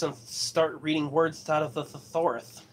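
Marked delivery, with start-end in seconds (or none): 1.5-2.6 tripping over "thesaurus" with lispy s sounds; slight lisp. Real, not acted. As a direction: stumble softly through "thesaurus", s turning to th. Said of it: "sounds like I got a lisp".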